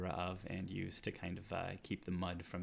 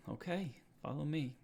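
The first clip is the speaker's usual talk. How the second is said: Cole's reply; 7 semitones higher than usual. Acted. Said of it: "um, and says".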